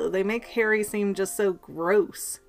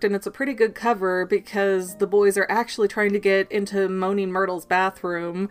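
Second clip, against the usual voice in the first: usual speaking voice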